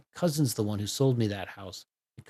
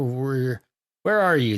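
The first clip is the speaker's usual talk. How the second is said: calling out; 6 dB louder, slower than usual. Acted. Calling out for missing Nat.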